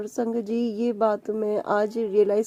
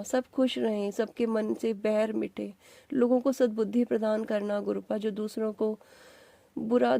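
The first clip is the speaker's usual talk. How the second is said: heartfelt prayer. Real, not acted. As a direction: pray gently for everyone's blessing. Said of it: "मैं सभी के लिए अरदास करती हूँ".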